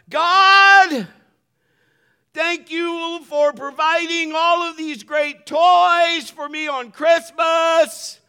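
high, drawn-out shouted prayer; yelling prayer. Acted. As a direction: bellow it slowly at the top of your lungs. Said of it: "he's yelling at the top of his lungs".

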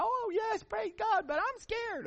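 high, timid voice, praising but scared; scared congregation. Retold or imitated. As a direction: squeak it out like a frightened churchgoer. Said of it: "And everybody".

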